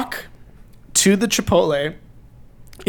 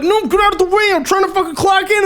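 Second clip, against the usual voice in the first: laughing protest; 11 semitones higher, faster than usual. Retold or imitated. Pushing past coworkers, retold.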